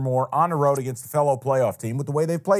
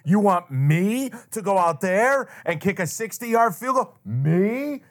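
mock panicked kicker; 5 semitones higher, slower than usual. Imitating the kicker.

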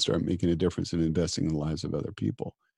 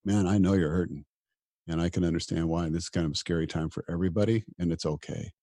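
kind self-talk; 3 semitones lower, 4 dB quieter than usual. Retold or imitated. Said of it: "Kindness is".

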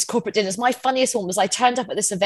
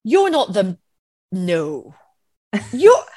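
baffled; 5 dB louder than usual. Retold or imitated. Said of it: "completely baffled".

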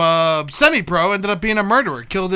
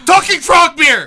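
loud, slow mock bar order; shout; 6 semitones higher, 5 dB louder, slower than usual. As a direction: bellow it out slowly.

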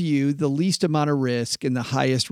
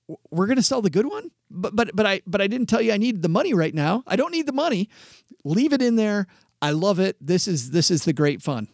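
higher, pleading, mock-panicked client; alarmed client Sandy; 5 semitones higher than usual. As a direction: beg to keep the good fund, voice climbing. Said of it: "Sandy looks at me and goes".

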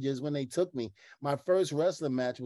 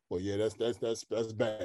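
deadpan Ron impression; 4 semitones lower than usual. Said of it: "Ron goes".

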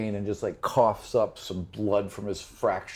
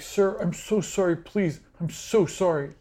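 high, pleading apology in a much higher voice; cowering servant; 9 semitones higher than usual. Acted. Game master voicing the beaten servant, high and pleading. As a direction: beg forgiveness, voice pitched way up. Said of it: "And he's like".

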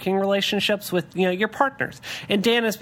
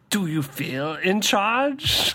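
put-on slow villain line with a little accent; Bane; 2 semitones higher, much slower than usual. Repeating the movie line for a co-host, lightly accented villain. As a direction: draw it out slowly, lilting up at the end. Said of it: "You did a little accent".

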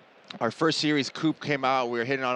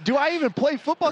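high-pitched mock self-doubt; giddy retold fan amazement, pitched high; starstruck disbelief; 14 semitones higher than usual. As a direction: replay being awed, voice way up. Retelling his starstruck reaction.

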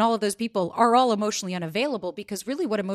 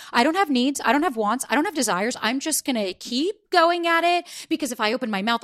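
lightly voiced cool-girl act; pitched up, reciting each denial in turn; 4 semitones higher, 3 dB louder than usual. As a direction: put on a breezy "no needs" front. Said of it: "the other one that's doing the cool girl".

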